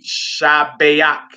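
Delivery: Shabayak said slowly, syllable by syllable; modelled pronunciation. Shown as a demonstration. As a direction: draw out Shabayak as sha-bay-AK. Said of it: "it would be".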